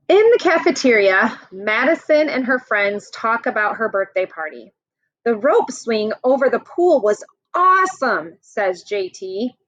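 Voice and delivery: lively picture-book read-aloud; reading to children. Acted. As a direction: read it out to the class like a storybook. Teacher reads picture book to class.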